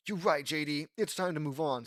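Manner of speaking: a touch of firm resolve; determined. A narrator's reading. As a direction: state it with mild determination. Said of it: "says Mike, determined".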